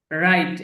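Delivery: রাইট said as rait with no w sound at the start; careful pronunciation. Shown as a demonstration. Teacher points out the silent w in write, clear and deliberate. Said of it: "খেয়াল করবেন এটা".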